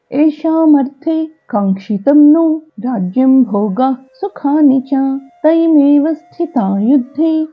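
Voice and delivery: slow, measured Sanskrit shloka chant; verse recitation. Acted. Teacher reciting a Gita verse for learners, measured chant. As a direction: recite the verse in long, drawn-out syllables.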